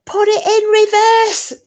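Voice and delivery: high, loud, slow mock urgent order. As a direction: bark it like he's terrified. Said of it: "he just goes to her".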